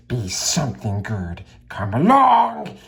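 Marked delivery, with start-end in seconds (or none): 1.7-2.8 much higher, louder shout; Bilbo shouting. Acted. Bilbo demands Gollum lead him out, shouting. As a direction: shout it impatiently. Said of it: "he shouted".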